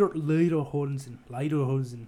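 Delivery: attempted German accent; light mock-German pronunciation. Shown as a demonstration. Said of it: "try your best, uh, German accent".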